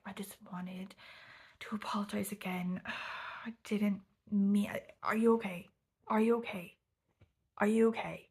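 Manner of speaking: halting mock apology, building to urgent concern; overly intensely apologetic. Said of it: "overly intensely apologetic and ridiculous".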